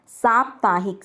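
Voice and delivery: साप्ताहिक with long opening "saa"; साप्ताहिक said as "saap-taa-hik"; correct pronunciation. Shown as a demonstration. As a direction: stretch the first vowel of साप्ताहिक to "saap". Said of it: "साप्ताहिक होता है".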